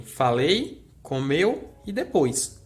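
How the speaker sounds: closed E in "falei" and "comeu", closed O in "depois"; vogal fechada. Shown as a demonstration. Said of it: "aqui a gente tem E fechado". ("falei", "comeu", "depois" com vogais fechadas)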